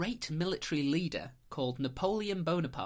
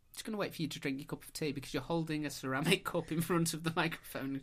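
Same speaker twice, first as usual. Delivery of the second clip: into a cup. Real, not acted. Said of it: "talking into the cup".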